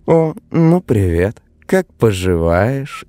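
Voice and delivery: sneering, drawn-out greeting; a mocking woman on the phone. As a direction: taunt him sweetly. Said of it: "издевательским тоном спросила она".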